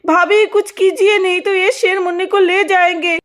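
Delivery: sister-in-law crying out in shock; aunt calling to her sister-in-law about the lion; alarmed aunt. Acted.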